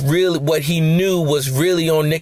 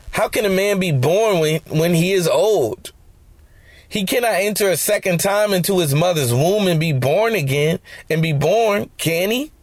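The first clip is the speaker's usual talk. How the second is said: a hint of mocking disbelief in the question; lightly sarcastic Nicodemus; sarcastic reading. Shown as a demonstration. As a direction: reread it with a touch of sarcasm. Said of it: "let's read this a little bit differently".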